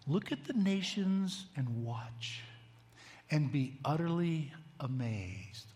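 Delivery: slow, weighty scripture reading; measured divine pronouncement; God's solemn answer. Acted. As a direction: let each phrase land slowly. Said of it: "God's answer is astounding".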